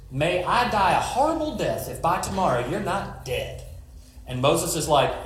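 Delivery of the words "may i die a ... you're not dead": menacing queen's vow with a light put-on voice; villain oath. Jezebel vowing Elijah will be dead by tomorrow, light villain voice. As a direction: swear it like a wicked queen.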